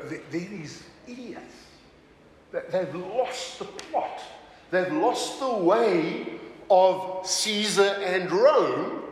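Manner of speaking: slow, mock-scornful critic; mildly scornful put-on voice; acted criticism. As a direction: imitate disapproving critics, drawing out the words. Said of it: "historical documents that criticize".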